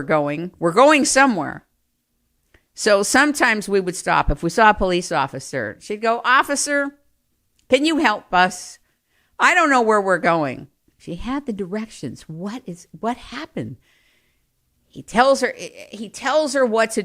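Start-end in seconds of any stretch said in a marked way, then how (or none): 6.2-10.7 helpless mother. Retold or imitated. Mother voiced asking police for help.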